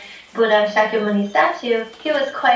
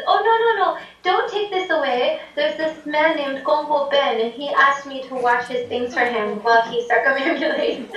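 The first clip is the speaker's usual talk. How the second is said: the Buddha statue speaking; 2 semitones higher than usual. Retold or imitated. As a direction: stop him kindly, pitched up. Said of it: "the statue speaks".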